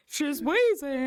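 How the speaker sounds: slow, wheezing through laughter. Real, not acted. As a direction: gasp the words out between laughs. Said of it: "I'm fucking wheezing".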